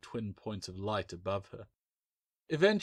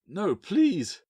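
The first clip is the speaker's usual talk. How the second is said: higher, louder desperate plea; begging; 10 semitones higher, 5 dB louder than usual. A narrator's reading. Captive master begging Bill to spare him, desperate plea. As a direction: beg for mercy. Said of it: "the master begged".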